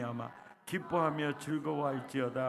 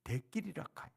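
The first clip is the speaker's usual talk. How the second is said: Gyeongsang dialect; 2 semitones higher, 7 dB quieter, faster than usual. Retold or imitated. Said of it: "경상도 말로는요".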